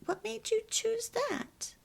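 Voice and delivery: high, light inquiring demo; non-blaming question. Shown as a demonstration. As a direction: model a curious question instead of blaming. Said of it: "it's hard to not say that".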